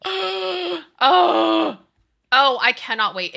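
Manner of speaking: high squeal on the first oh; squealing excitement. Retold or imitated. Fan squealing about the movie trailer, excited. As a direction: gush like you can't contain it. Gushing over upcoming movie.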